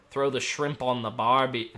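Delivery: put-on half-hearted go at an Australian accent; Australian accent that barely comes through; failed Australian accent. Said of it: "I can't do your accent tonight".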